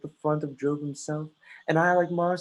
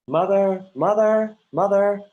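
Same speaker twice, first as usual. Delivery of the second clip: loud calls across the house to his mother; calling out; 6 semitones higher, 9 dB louder, slower than usual. Acted. Son calling loudly for his mother offstage. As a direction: shout "mother" so she hears you.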